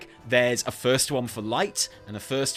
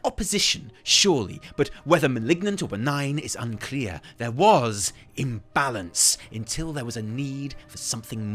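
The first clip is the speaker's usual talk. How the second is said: measured, weighty storytelling with emphatic swells; dramatic in-character reading; theatrical lore narration. Acted. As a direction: narrate like a musing scholar, weighing each word.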